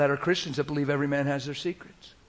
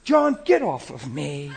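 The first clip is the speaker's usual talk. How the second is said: laughing brush-off; 6 dB louder, slower than usual. Retold or imitated. Jesus pushing John away.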